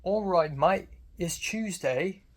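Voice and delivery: stereotypical British accent. Shown as a demonstration. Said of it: "American stereotype of a British accent is".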